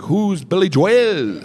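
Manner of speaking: confused and drawn out; puzzled. Retold or imitated. Comic baffled by Irish sound guy, slow confusion. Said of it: "And I was like".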